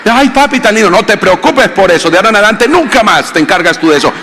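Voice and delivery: wife gushing thanks to her husband, high and sweet. Retold or imitated.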